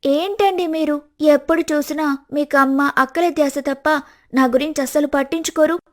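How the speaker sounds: quarreling wife. Acted. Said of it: "గొడవ పడుతుంది".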